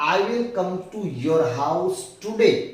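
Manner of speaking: each word spaced out for a learner; very slow dictation. Shown as a demonstration. Teacher reading slowly to students. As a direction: spell the sentence out word by word. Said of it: "English में".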